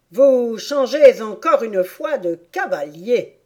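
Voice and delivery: loud storybook griffon roar, lightly done. Acted. Griffon calls the next dance step, roaring. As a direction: call it out with a mild roar. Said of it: "rugit le griffon".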